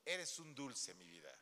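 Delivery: a lightly voiced flattering spouse; sugary flattering spouse. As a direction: gush over them like a sweet-talking liar. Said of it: "Pero si se empieza".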